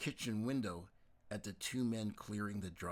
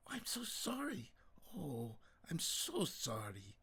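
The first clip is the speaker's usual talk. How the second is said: hushed sorrow; 6 semitones higher than usual. Acted. Mother hears bad news.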